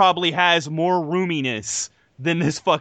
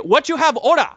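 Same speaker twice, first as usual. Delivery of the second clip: hammed-up stereotyped East Asian accent, higher; raised-pitch mock Asian-accented server; 5 semitones higher, 4 dB louder than usual. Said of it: "like, offensive stereotype that I can throw out there".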